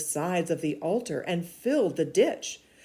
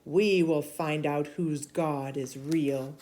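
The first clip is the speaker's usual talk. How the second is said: stern prophet rebuking. Acted. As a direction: scold the king like a bold prophet. Elijah's challenge to Ahab.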